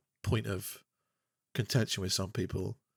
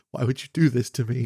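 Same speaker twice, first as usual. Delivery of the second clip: mock anguish; 5 dB louder than usual. Shown as a demonstration. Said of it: "convey some emotion".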